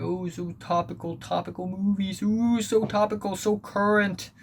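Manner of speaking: high, sarcastic mock praise; mock the trendy hype, sarcastically. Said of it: "people are gonna make".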